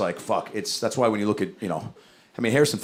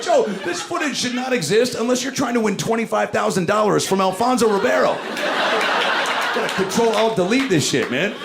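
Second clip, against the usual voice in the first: mock scolding; 10 semitones higher than usual. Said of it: "I was like".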